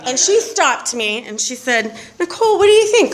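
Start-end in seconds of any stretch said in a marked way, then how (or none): 2.2-3.1 high-pitched incredulous question; pitched up, mock-incredulous; retold challenge. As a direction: imitate a sponsor calling someone out. Sponsor challenging her, retold.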